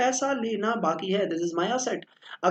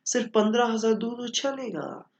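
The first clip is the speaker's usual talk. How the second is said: sweet pleading; 4 semitones higher than usual. Retold or imitated. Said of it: "इतने प्यार से बोलेगी".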